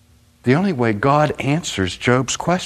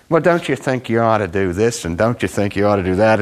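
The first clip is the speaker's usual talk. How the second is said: smug youngster. Retold or imitated. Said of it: "smugly saying to you".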